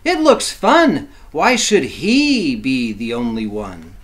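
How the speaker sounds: a sheep begging to join the dance; eager sheep. Acted. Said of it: "cried the sheep".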